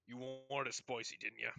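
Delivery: lightly voiced dwarf innkeeper, pitched a little down; a hint of a tavern keeper. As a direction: play the innkeeper with a light character voice. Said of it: "and he's like".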